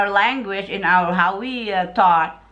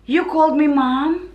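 retold surprised question; 4 semitones higher than usual. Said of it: "and she said".

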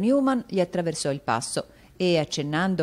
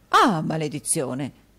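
dismayed; 5 dB louder, slower than usual. Acted. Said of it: "allungò considerevolmente il viso".

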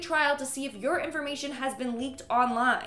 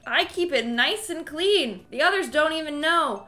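creepy stalker voice. Acted. Reading creepy messages in voice.

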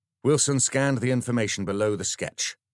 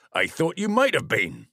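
smug sergeant; 9 semitones higher, 6 dB louder than usual. Acted. Sergeant needling the vicar.

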